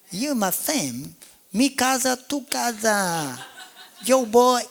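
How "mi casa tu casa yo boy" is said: high, laughing, teasing; playful laughing. Real, not acted. Pastor joking with his church family, laughing. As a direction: tease the church fondly.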